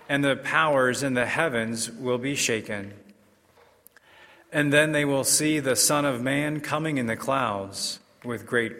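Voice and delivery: formal liturgical proclamation; measured, solemn scripture reading; Gospel reading. Acted.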